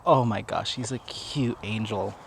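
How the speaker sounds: soft, slow adoring murmur; doting coo. Real, not acted. Vlogger adoring the puppy from afar, soft slow coo. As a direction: melt over the puppy, hushed.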